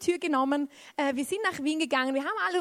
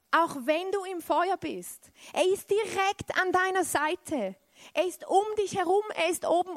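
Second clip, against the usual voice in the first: rising emphatic preaching; 5 semitones higher than usual. Acted. Preacher proclaims to the congregation that God is near. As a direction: lift it up like a promise.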